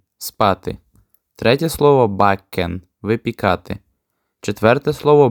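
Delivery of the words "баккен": баккен said the German way; German word demo. Shown as a demonstration. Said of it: "читаються ось так". (баккен німецькою вимовою)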